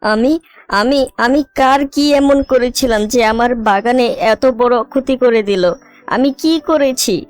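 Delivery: high, weepy storybook sobbing; acted crying. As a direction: wail in despair over a terrible loss. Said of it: "অজরে কান্না করতে থাকে".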